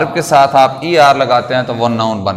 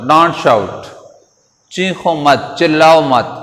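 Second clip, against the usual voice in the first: usual speaking voice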